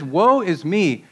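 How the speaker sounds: slow, emphatic cry of condemnation; acted prophetic self-condemnation; solemn declaration. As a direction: declare WOE with weight, swooping on the word. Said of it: "declaring, "I'm condemned".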